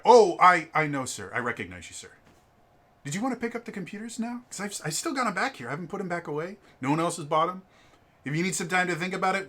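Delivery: smugly kill him with kindness; smug cheerful clerk. Retold or imitated. Clerk smugly offers the computers back.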